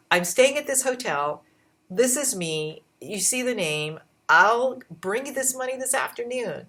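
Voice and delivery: pushing hard to get the moleskin; insistent pleading. Retold or imitated. Stranded shopper begging the store clerk, insistent pleading. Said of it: "And I said".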